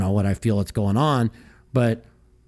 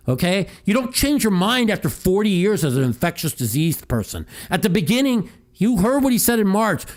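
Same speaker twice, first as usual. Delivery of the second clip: higher and pushed, hammering each point; heated rant; 6 semitones higher than usual. Real, not acted. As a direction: rant at the listeners, fed up. Ranting about Fauci on air.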